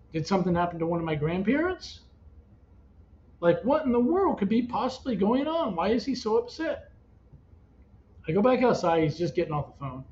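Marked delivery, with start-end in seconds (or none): 3.4-6.9 higher, swooping incredulous questions; retold exasperated bewilderment; bewildered questioning. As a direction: wonder anxiously, pitch climbing.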